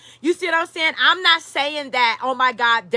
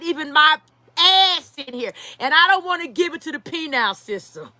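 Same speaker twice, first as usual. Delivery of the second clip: voicing a rapper; 3 semitones higher than usual. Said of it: "fucking Diddy's like".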